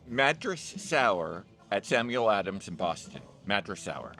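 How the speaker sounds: mock announcer. Announcer-style beer name call.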